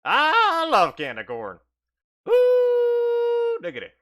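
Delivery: slow, loud hillbilly drawl; Cooter voice. Acted. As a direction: savor it like a giddy yokel. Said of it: "says Cooter".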